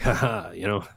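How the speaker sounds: lightly gloating suburbanite; mock smug. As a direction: imitate a smug homeowner with a token "ha ha". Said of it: "very smug about that".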